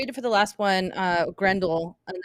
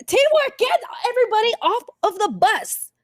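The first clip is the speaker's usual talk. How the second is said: yelling; 4 dB louder than usual. Acted. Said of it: "I yelled teamwork to everybody".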